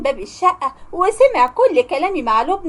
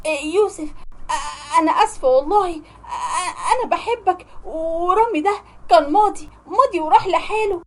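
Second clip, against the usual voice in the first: shaky, higher pleading with stammers; trembling plea; 3 semitones higher than usual. Acted. Caught sister trembling as she begs Youssef. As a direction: beg him, trembling, caught out. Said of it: "ترتعش وتقول".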